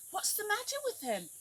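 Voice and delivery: lightly voiced high deer; a hint of a worried deer; deer's voice. Deer asks the others about the crocodile, high and curious. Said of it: "asked the deer".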